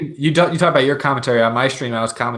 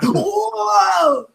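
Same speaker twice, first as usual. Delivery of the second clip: startled whoa. Retold or imitated. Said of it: "That was basically my whole stream".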